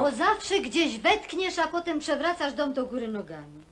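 wife laughing at her husband's lost sweater; laughing tease. Acted. Wife teasing husband about sweater.

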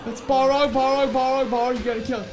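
high, loud panicked commands; frantic yelling. Real, not acted. Gamer yelling commands at his fighting creatures, high and frantic. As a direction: bark orders mid-battle in a panic.

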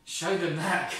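loud, bright, amused God; laughing God. Acted. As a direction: say it with a chuckle. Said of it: "God laughed".

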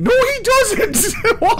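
indignant. Real, not acted. Protesting friend's claim.

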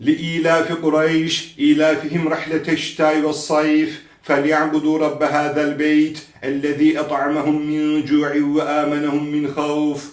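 measured tajweed reading on a level pitch; Quran recitation. Shown as a demonstration. Quran teacher reviewing the surah, measured recitation. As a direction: recite evenly, holding the long vowels.

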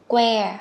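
"que" opened with a puff of breath on k; aspirated k onset. Shown as a demonstration. Teacher corrects learners, "que" with a breathy hard k. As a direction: release the k clearly in "que". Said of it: "con bật hơi ra".

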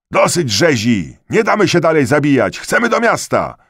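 loud, high cries rising in pitch; crowd's shouted protest. A narrator's reading. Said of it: "W tłumie podniósł się znów gwar". (coraz wyższy krzyk buntującego się tłumu)

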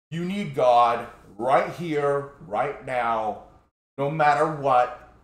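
loud, slow, insistent preacher. Retold or imitated. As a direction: press every word like a pushy preacher.

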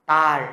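slow "Tal", tongue curled up on the L; curled-tongue final L. Shown as a demonstration. Teacher repeats the example after the tongue tip, slow curled-tongue L. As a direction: draw out "Tal" and curl the tongue at the end. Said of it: "Cong lưỡi nhá".

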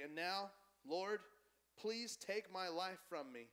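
lightly acted despair; a little dramatic. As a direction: plead to God like a slightly melodramatic prophet. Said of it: "Jonah's a little dramatic".

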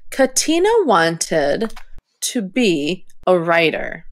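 broken into bits with pauses; halting, choppy read-aloud. Shown as a demonstration. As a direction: read it word-chunk by chunk, choppy. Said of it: "that sounded pretty choppy".

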